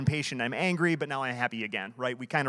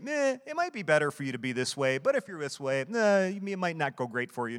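mock shrug. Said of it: "He's not saying".

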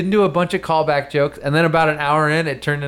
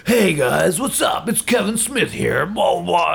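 mock Kevin Smith. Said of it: "where he's like".

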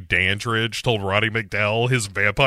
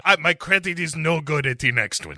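put-on higher, evasive castaway in a mixed accent; hammed-up Spanish-French accent; Jon Voight's muddled accent; 4 semitones higher, faster than usual. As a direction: make excuses in a wandering foreign accent. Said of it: "So Jon Voight jumps onto the boat".

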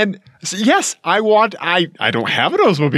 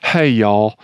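Southern greeting; 3 semitones lower than usual. Retold or imitated. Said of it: "any YouTube video that starts off with".

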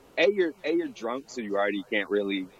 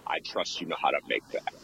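deadpan; 4 semitones lower, 4 dB quieter than usual. Retold or imitated.

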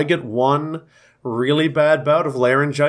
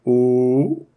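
hoarse ooh sliding up to his highest pitch; high note; 2 semitones lower than usual. Shown as a demonstration. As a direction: strain up to the top of the range. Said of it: "that's about as high as I can go".

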